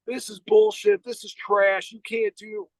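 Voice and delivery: sharp jump up high on bullshit, then easing off; imitating an angry guard yelling into the phone; retold yelling. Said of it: "I hear this dude yelling in the phone".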